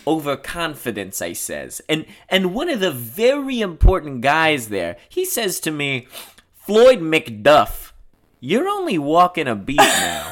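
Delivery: boastful cop retelling his big moment; emphatic, swelling brag; Floyd, blustering. Acted. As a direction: play a self-important talker. Plays Floyd in script reading.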